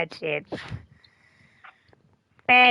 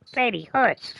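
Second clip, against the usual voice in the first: dad shushing; 3 semitones higher, 3 dB louder, slower than usual. Retold or imitated. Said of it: "my dad would be like".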